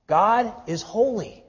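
usual speaking voice

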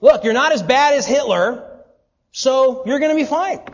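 mock reassurance. Preacher parodying people comparing themselves to Hitler, mock cheerful. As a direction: play the smug comforter. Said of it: "who comes up? It's Hitler".

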